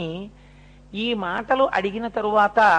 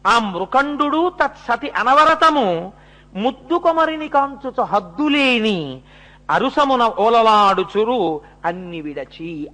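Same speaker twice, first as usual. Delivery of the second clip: verse recitation; 3 dB louder, slower than usual. Acted. Preacher repeating the verse on the parents' delight, slow chanted recitation. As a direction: intone the poem with long, stretched syllables.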